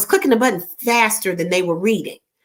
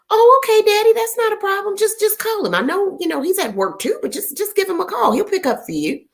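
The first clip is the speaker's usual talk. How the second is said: much higher, sugary daughter voice; sweet daughter reply; 10 semitones higher than usual. Retold or imitated. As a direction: coo it at daddy, overly patient. Her sweet reply to daddy.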